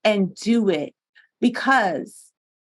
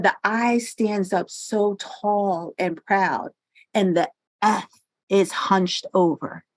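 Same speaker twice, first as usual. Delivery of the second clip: slow, deliberate, a hint of Southern drawl; deliberate mom voice; 2 semitones lower, slower than usual. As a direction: lightly voice mom's unhurried wise words. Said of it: "my mom talked very deliberate with almost, like, a Southern twang".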